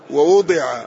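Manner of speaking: ووضع as "wa-wudi'a", U then I; passive vowelling. Shown as a demonstration. Teacher giving the passive verb, ووضع as wa-wudi'a. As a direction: say ووضع with u after the second w and i after d. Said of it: "المبني للمجهول".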